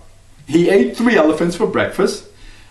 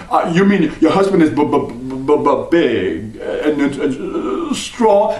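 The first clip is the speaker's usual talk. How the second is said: stuttering nervous voice with a laugh; scared stammer; 3 semitones lower than usual. Acted. Superman hears about the big husband, stammering nervously. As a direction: stammer as fear sets in.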